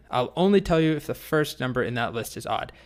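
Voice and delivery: a grumpy dragon, played lightly; mildly grumpy. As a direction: grumble it with mild annoyance. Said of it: "sort of grumpily".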